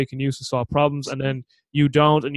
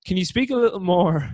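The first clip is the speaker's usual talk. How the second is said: trying for deeper, manly voice; 3 semitones higher than usual. Pretend. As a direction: put on a manly voice. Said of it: "I'll be a little bit deeper now, more manly".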